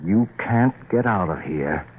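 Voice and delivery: measured, slow menace; slow, deliberate repeat. Acted. Husband repeating threat to frightened wife, slow and deliberate. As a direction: spell the threat out slowly.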